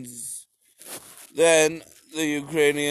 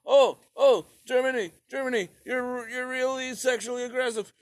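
mock prissy Russia; 9 semitones higher than usual. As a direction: squeal it, then drag out the slap line. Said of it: "Russia was just like".

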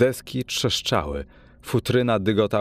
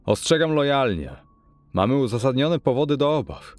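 higher, raised voice of a firm warning; stern warning; 5 semitones higher than usual. Acted. Lawyer threatening to break down the door, raised stern warning. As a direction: lay down the ultimatum, voice raised.

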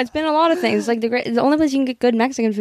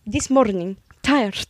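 shaky Irish accent on "This morning", with "This" said as "Tis"; amateur Irish accent, reading a novel aloud; attempted Irish accent; slower than usual. Shown as a demonstration. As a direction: try the line in a rough Irish lilt. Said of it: "should I do an Irish accent?".

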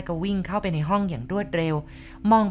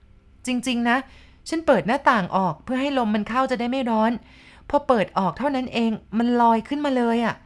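higher, urgent and frightened; scared insisting; 5 semitones higher than usual. Acted. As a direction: insist it really happened. (ภรรยายืนยันด้วยเสียงสูงตื่นกลัว)

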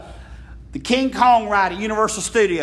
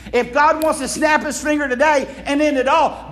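preaching shout; 3 semitones higher than usual. Real, not acted. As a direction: preach it out with force.

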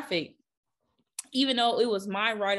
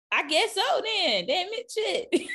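much higher, slow, laughing; laughing mock resignation; 9 semitones higher, 4 dB louder, slower than usual. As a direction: give in with a giggle. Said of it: "I'm like".

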